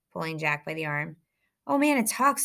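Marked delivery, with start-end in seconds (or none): 1.7-2.4 higher-pitched mock scream, not full volume; mock scream, pitched well above the narration. A narrator's reading. Bully jeering at the boy, mild mock scream. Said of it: "screamed Eddie".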